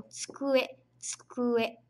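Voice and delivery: tsukue with a light tsu, first vowel nearly dropped; Japanese tsu sound. Shown as a demonstration. Teacher demonstrating the hard tsu sound, tsukue. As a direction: say tsukue as skue-eh, tsu almost swallowed. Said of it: "vamos lá praticar até que fique fácil".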